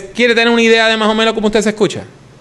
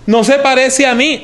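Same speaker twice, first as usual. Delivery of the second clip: higher-pitched mild protest of someone hearing a recording; mock disbelief; 5 semitones higher than usual. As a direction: react in mild dismay to your own recorded voice. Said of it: "cuando usted se oye en una grabación, dice".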